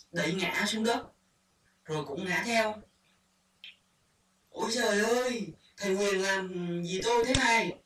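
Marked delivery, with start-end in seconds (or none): 4.5-7.7 mock cry for help. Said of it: "Tiếng kêu".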